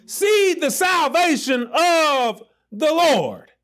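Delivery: slow, building proclamation shout; Moses calling out. Acted. Moses calling to the panicking Israelites, slow and commanding. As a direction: call it like Moses at the sea. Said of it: "And Moses said to them".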